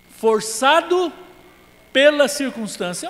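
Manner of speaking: slow, high mocking drawl of the excuse. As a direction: parody the self-pitying excuse, stretched out.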